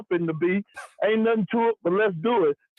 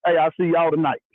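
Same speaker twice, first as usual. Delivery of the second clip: loud call-in shout; 6 dB louder than usual. Real, not acted. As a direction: shout it down the phone line to the host. Caller shouting into the phone.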